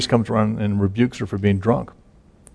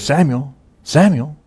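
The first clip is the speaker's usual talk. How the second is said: voice calling; 5 semitones higher than usual. Retold or imitated. God's voice calling the boy.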